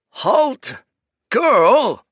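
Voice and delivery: put-on high, loud cracking old man's shout; old priest yelling at the girl to stop; shouted command. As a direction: bark it after her down the road. Priest yells after departing girl.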